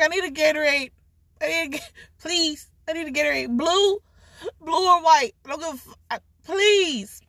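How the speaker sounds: pleading high whine. Retold or imitated. Begging for Gatorade.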